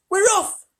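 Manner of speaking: very high, loud cheer; excited shout. A narrator's reading. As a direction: cry it out with joy. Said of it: "someone was shouting".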